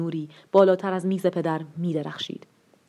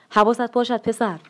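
shouted warning; 5 semitones higher than usual. Acted. Father shouting a warning to his son, raised and higher. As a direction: call out a sharp warning. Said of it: "فریاد زد".

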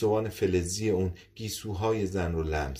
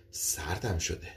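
softer, shaken admission of feeling cold; quiet shiver; 3 semitones lower, 5 dB quieter, slower than usual. Acted. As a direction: murmur it, unsettled. Woman frightened, says she's cold.

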